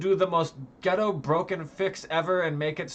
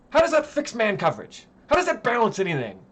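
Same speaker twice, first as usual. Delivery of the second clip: angry rhetorical questions; 4 semitones higher, 4 dB louder than usual. Real, not acted.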